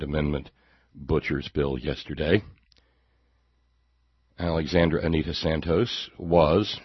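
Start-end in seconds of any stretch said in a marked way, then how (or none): 4.4-6.8 "was" set apart at the end; stress on WAS. Real, not acted. Host telling of a dead woman in past tense, stressing "was". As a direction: lean on "was" and leave it hanging. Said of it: "emphasis on the word was".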